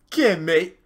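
very high, loud squeal; squeaky cartoon bear. Kyle the bear greets the prince, very high and loud. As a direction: play the bear as a shrill mate.

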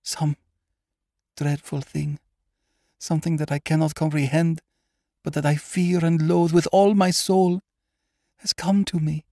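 very high, anguished voice rising to a loud peak; desperate pleading. Acted. Haunted woman begging her doctor for hope, high and desperate. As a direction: plead in mounting terror.

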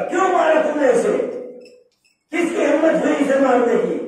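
high-pitched, indignant demand, only mildly heated; angry king. Retold or imitated. Harun questions his guards over beating Bahlol, acted anger. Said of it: "फौरन गजबनाक हुआ".

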